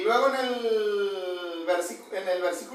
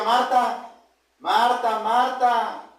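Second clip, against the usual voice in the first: calling out; 3 dB louder, much slower than usual. Acted. Retoma la voz que llama.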